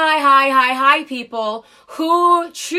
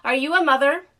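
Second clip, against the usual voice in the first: nice; faster than usual. Retold or imitated. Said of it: "So I nicely say to her".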